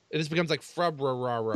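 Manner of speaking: "Febrarara" with rolling extra Rs. Shown as a demonstration. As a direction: overdo the Rs in "Febrarara". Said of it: "no one says it that way".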